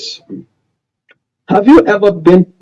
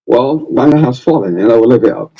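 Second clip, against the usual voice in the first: Charles Taylor impression; 4 semitones lower than usual. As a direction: do the president's famous line, lower on the second half. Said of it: "It has a distinctive voice".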